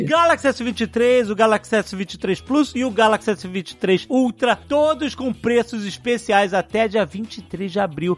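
bright, pushy sales pitch; infomercial. Acted. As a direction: sell it like a TV ad host. Upbeat sponsored ad read.

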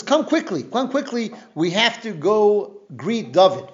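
pressing them to move fast; urgent call. Retold or imitated.

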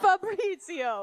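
put-on slow, high, laughing Italian mobster accent; Italian mob accent. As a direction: draw out the name like an Italian mobster. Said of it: "Do the Italian mob impression".

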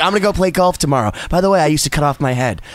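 calm old rocker. Retold or imitated. Host mimics a veteran rock singer's radio calm, lightly imitated. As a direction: lay back and tell it like an unbothered old rocker. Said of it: "he's just so calm".

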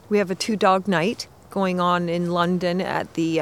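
shivering, teeth chattering in the cold. Real, not acted. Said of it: "my teeth are chattering here".

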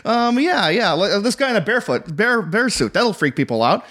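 flailing director. Retold or imitated. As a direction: toss out mock ideas as if making it up. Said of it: "I see he's flailing. He's literally going".

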